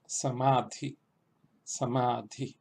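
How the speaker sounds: "samadhi" with a long middle a, careful Sanskrit; sanskrit word. Shown as a demonstration. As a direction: pronounce "samadhi" the Sanskrit way, each vowel clear. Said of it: "las voy a repetir dos veces". ("samadhi" en sánscrito, vocal larga marcada)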